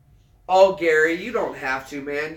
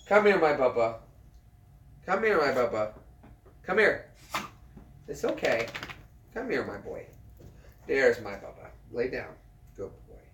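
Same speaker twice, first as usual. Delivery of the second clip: tender dog talk. Real, not acted. Owner coaxing his dog Bubba to lie down, tender and softening. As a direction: soothe the dachshund, easing to a hush.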